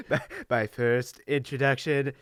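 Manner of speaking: mock nerdy kid, a touch Trumpy; Trump-like kid voice. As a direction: lightly put on a Trump-like kid voice. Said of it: "Sounds like Trump".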